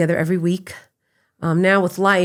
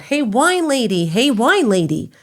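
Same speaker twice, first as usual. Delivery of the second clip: high, slow call up the stairs; mock stranger hollering hey wine lady; 5 semitones higher, 4 dB louder, slower than usual. Stranger calls up the stairs to her, slow and high. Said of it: "someone's screaming out".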